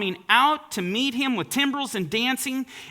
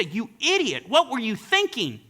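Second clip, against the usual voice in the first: mock angry daughter; 6 semitones higher than usual. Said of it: "in raging anger, berating her father".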